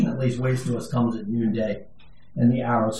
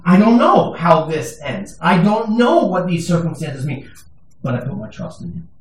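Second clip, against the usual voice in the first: sincere confession; 4 semitones higher, 4 dB louder than usual. Real, not acted. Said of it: "I'm saying right now before you".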